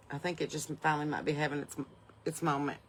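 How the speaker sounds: talking through hiccups. Real, not acted. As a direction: speak with hiccups catching the breath. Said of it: "Sorry, I got the hiccups".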